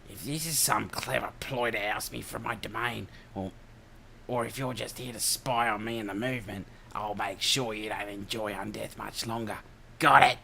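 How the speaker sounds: put-on threatening broad Ocker accent; menacing Australian Ocker accent. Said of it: "the old Ocker voice".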